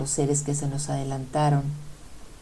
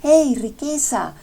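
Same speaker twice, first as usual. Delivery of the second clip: higher, louder, slow hail across the water; calling out; 9 semitones higher, 5 dB louder, slower than usual. Acted. Love hailing the rich boat, calling out loud and high. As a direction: shout to the passing boat. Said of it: "le gritó".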